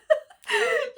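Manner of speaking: high squealing laugh; high real laugh; burst of laughter. Real, not acted. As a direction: laugh out loud at the idea. Laughing at shower idea.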